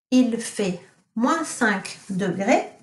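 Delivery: Il fait moins cinq degrés repeated slowly; teacher repeating Il fait moins cinq degrés for pupils; slow model sentence. Shown as a demonstration. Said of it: "what does it mean if I say".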